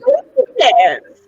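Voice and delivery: laughing it out, a touch of a yell; real laughter breaking through. Real, not acted. Laughing at her own situation.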